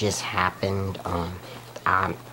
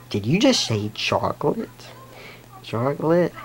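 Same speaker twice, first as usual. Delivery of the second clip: a frantic fish losing it over chocolate, louder each time; screaming chocolate; 3 dB louder than usual. Retold or imitated.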